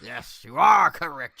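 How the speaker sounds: slow, hammed-up announcer echo; mock sidekick catchphrase. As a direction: draw it out like a TV sidekick. Echoes Ed McMahon catchphrase.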